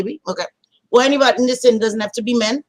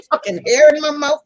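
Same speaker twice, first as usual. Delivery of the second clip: laughing through it, higher; 6 semitones higher than usual. Real, not acted. Streamer laughing at the hair in her mouth, laughing. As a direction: laugh out the complaint.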